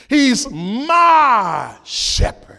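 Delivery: slow, hushed whisper. Real, not acted. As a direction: breathe it like a secret. Intimate aside after quoting psalm.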